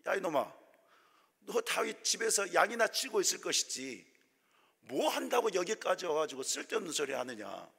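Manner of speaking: mild scolding big brother; elder brother telling off David. Retold or imitated. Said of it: "혼을 내는 거예요". (동생을 나무라는 큰형, 가벼운 꾸중)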